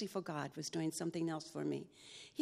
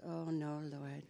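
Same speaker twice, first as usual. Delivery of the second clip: soft, fading laugh at herself; rueful laugh; 2 semitones lower, 8 dB quieter, slower than usual. Real, not acted. Telling God no, trailing into a soft laugh. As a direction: groan it out then laugh it off. Dismayed at God's choice.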